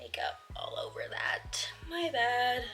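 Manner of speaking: high surprised gasp then whisper; startled oops. Real, not acted. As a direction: caught off guard by a spill. Makeup spill mishap.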